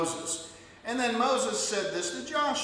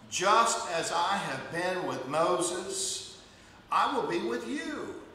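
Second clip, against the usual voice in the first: solemn promise; slower than usual. Acted. Slow solemn divine promise quoted.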